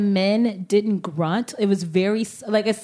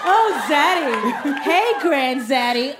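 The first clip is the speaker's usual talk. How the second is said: sexual moan; 3 semitones higher, slower than usual. Pretend. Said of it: "a very extra, like, sexual moan".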